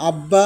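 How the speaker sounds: আব্বা said as ab-ba, the b sounded; আব্বা with a held double b; example word. Shown as a demonstration. Teacher shows students আব্বা with the b sounded. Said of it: "আব্বা শব্দে বফলার উচ্চারণ রয়েছে".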